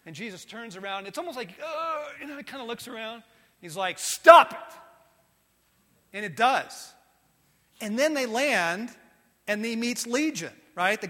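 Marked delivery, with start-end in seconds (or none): 4.0-4.8 loud sharp command to the storm; commanding shout. Acted. Jesus silencing the storm with a loud command. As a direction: bark it out with full authority.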